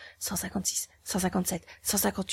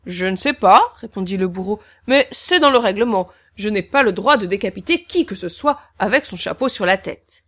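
jolly executioner; 5 dB louder than usual. Acted. Executioner voiced.

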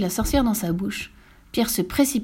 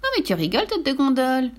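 mocking witch; 4 semitones higher than usual. Witch mocks the boy.

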